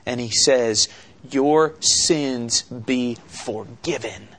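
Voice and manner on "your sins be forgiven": slow, gentle words of forgiveness; tender. Acted. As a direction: say it very slowly and tenderly, as Jesus. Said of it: "Jesus speaks with all tenderness".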